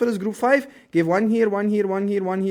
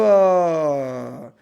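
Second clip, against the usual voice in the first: coughing after crack; 8 dB louder than usual. Real, not acted.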